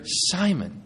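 calling the name quietly, disappointed; gentle reproach. Acted. Jesus waking a sleeping Peter, soft reproachful call.

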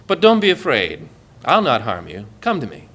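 low, reassuring voice; kind and gentle. Acted. The lion of Judah calling you near, gentle. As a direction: soothe their fear tenderly. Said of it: "I'm kind and gentle".

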